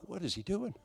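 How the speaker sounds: high, hushed retold bewilderment; bewildered aside. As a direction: wonder it under your breath, pitched high. Retells his bewildered aside.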